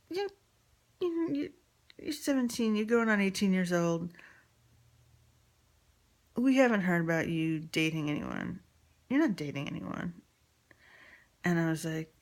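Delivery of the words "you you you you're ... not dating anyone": voicing the father. Father confronting daughter, voiced.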